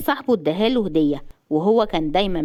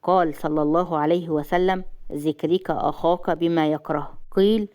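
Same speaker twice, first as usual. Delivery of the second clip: lightly voiced man, lower and level; husband gently admonishing; 3 semitones lower than usual. Jasser quoting a hadith against backbiting, low and measured. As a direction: advise her soberly in a lower voice.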